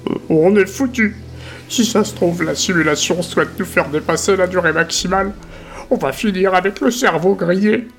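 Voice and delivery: voix haute et affolée; peur panique. Acted. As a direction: Marchaud panique devant ses camarades. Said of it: "pris d'une peur panique". (voix aiguë paniquée)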